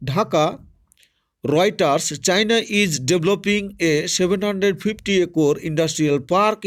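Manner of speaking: slow, careful reading of an English news item; reading aloud. Shown as a demonstration. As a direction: read it out word by word for students. Reads news text slowly aloud. (ধীরে ধীরে খবর পড়া)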